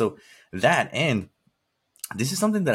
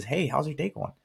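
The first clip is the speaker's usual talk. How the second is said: cheerful greeting; 6 semitones higher than usual. Retold or imitated. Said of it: "my intention is just to".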